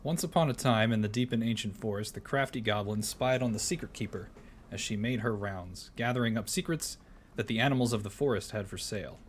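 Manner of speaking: storybook reading voice; story narration. Acted. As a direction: read it like a bedtime tale. Reads goblin story aloud.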